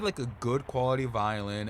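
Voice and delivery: ordinary talk, nothing marked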